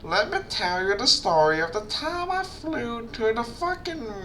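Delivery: high, fussy auntie voice; old auntie voice. Acted. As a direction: chatter like a nosy aunt. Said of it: "give him an old auntie voice".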